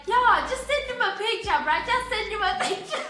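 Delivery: high, insistent friend egging on; excited urging. Retold or imitated. Friend egging her on, acted out.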